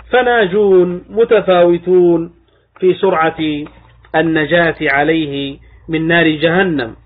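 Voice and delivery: slow, measured reading of a classical text; deliberate scholarly recitation, drawn-out words; formal text reading. Acted. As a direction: read it out slowly, phrase by phrase. Reads the source text aloud.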